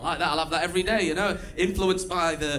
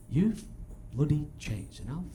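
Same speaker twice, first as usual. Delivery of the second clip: angry mate's garbled Potteries rant; thick Stoke mate. Retold or imitated. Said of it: "he looked me right in the eyes and he said".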